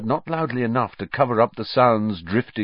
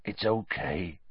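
quieter, barely above a murmur; softer still; 8 dB quieter than usual. A narrator's reading. Hagrid repeating comfort to Buckbeak, much softer. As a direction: let it fall away almost to nothing. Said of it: "said Hagrid softly".

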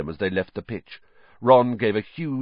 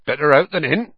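louder, hearty cheer; louder hearty good cheer; cheerfully; 6 semitones higher, 6 dB louder than usual. Acted. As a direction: cheer up the sick boy. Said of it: "he said cheerfully".

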